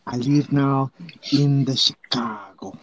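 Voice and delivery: mock East Jersey accent. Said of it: "This is the East Jersey accent".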